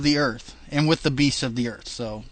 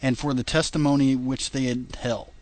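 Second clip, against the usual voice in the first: reading scripture aloud, steady and measured; King James reading. Acted. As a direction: read it like a Bible passage. Reads scripture.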